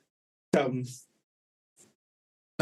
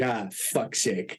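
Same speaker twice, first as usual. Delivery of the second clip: laughing exasperation; 5 semitones lower, much slower than usual. Retold or imitated. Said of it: "my friend Dan's like".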